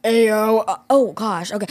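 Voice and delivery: low guy voice. Pretend. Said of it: "Like a grandpa voice?".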